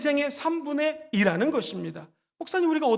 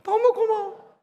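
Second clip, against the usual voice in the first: tender thanks; 2 semitones higher, slower than usual. Shown as a demonstration. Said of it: "시작".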